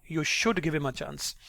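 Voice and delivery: "should" carries the emphasis; emphatic "should", contradicting; stress on should. Shown as a demonstration. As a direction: lean on the word "should". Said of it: "stress on the word can and should".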